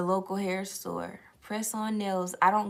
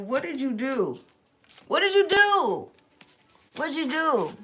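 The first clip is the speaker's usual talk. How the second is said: teasing question; 7 semitones higher than usual. Pretend. Teasing the collective.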